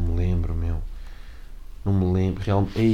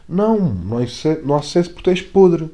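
raised, louder teasing jab; mock insult, pitched up and louder; mock self-roast; 4 semitones higher, 5 dB louder than usual. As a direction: heckle yourself like a mean critic. Roasting himself in another voice.

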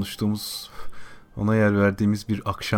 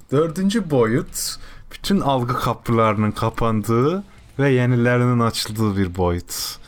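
mysterious slow narration; slower than usual. Pretend. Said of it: "Dördüncü boyutu anlatıyorum. Hazırlanın".

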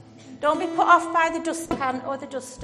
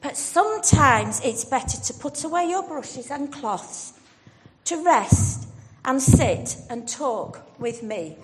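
gentle sigh; 2 semitones higher, 4 dB louder than usual. Acted. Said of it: "sighed Jesus".

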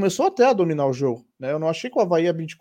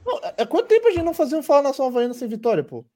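laughing; 8 semitones higher, faster than usual. Real, not acted. Laughing disbelief about rare win.

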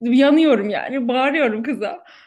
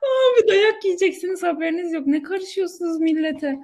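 alarmed scolding; 6 semitones higher than usual. Real, not acted. Alarmed at friend's risky story.

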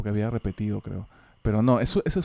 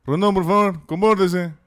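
stern teacher; 2 semitones higher, 6 dB louder than usual. Retold or imitated. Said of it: "me dijo".

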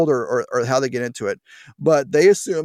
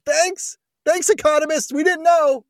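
much higher, mocking thank-you; sarcastic thanks; 12 semitones higher than usual. Real, not acted. Host mocking economists with a much higher, sarcastic thanks. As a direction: thank them with dripping sarcasm.

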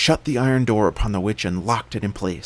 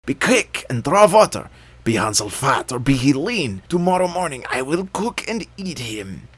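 much higher, louder impatient witch; 6 semitones higher, 4 dB louder than usual. A narrator's reading. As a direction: order her about like an angry witch. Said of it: "she cried one evening".

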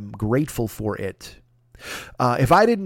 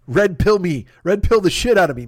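louder, higher, punching each pill; eager demand; 5 semitones higher, 3 dB louder than usual. Retold or imitated. Comedian hyping himself up, eager louder demand. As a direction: demand the red pill like a starving man.

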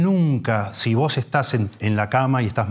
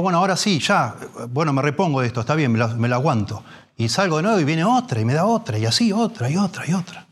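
acted rising desperation; 5 semitones higher than usual. Preacher acting the drowning man to his flock, building panic. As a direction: pile on each wave more and more frantically.

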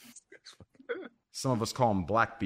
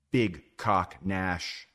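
announcer intro; 4 semitones lower, much slower than usual. Acted. Host introduces the co-host.

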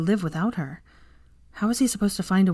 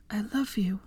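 soft unvoiced whisper; 3 semitones higher, 6 dB quieter than usual. A narrator's reading. Hermione whispers to Draco at his bedside, soft whisper. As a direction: breathe it against his hand. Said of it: "she whispered against his hand".

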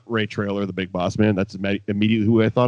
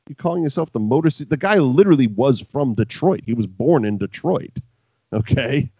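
fast, loud incredulous rant; 4 semitones higher, 6 dB louder than usual. Real, not acted. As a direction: rant in disbelief. Ranting at the gimmick.

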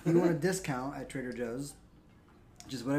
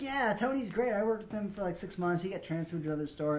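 much higher, breezy fibbing voice; mock fake employee; 5 semitones higher than usual. Fake employee bluffing to the manager, high breezy mock voice. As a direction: lay on the easy lie, pitched way up.

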